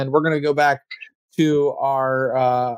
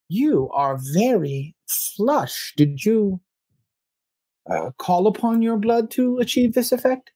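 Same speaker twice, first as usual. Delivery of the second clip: higher, slow, courtly vampire inquiry; slow and probing, an old vampire sizing up a newcomer; vampire elder; 8 semitones higher than usual. Acted. GM voices vampire NPC questioning.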